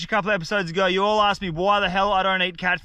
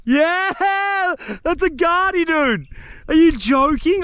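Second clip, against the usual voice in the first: excited; 10 semitones higher, 5 dB louder, much slower than usual. Real, not acted. Lands a garfish for bait.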